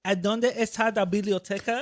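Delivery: mock learner's Spanish. Teasing co-host's attempt, mock learner's Spanish. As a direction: imitate someone attempting Spanish. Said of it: "Watch Manny gonna try. She's like".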